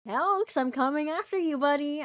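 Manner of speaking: playful mock threat. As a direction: call out a cheeky challenge. Playful threat to raid streamer.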